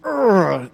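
a mock preacher's growling "Urgh"; prophetic growl. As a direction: growl it like a fiery old preacher. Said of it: "an old school prophetic".

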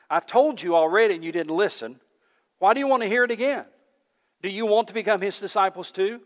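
a fed-up man pushing back; perturbed. A narrator's reading. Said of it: "getting a little bit perturbed".

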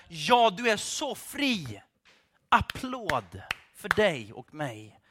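slow, drawn-out mock congratulation; sarcastic praise. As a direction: stretch the words as hollow applause. Sarcastic praise of status seekers.

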